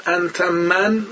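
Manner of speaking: انت من said very slowly, Egyptian style; Egyptian Arabic, slow. Retold or imitated. Teacher imitating Egyptians saying انت من.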